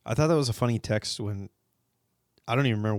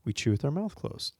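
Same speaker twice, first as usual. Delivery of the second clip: mild, gentle correction, softly retold; quietly matter-of-fact retold reminder; calm parent; 3 semitones higher, 3 dB quieter than usual. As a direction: imitate a calm mother reminding her child. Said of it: "like, very calmly".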